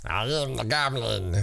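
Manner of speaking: lightly voiced goblin, quiet and slow; a hint of a creepy goblin. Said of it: "that's my goblin voice".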